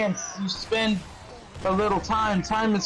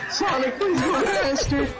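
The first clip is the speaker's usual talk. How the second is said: hammed-up fanfic plea; 6 semitones higher than usual. Mock reading of fanfic quote.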